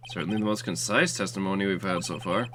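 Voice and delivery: a judge losing patience; stern judge. Acted. Voices the judge.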